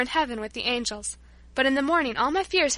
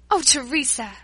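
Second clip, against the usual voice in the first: cry out; 4 dB louder than usual. Acted. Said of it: "I cried".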